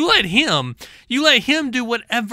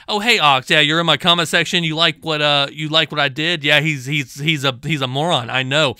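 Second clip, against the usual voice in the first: lower, mocking voice of the opponent; mocking impression; 4 semitones lower than usual. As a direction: ham up the rival fawning over Ox.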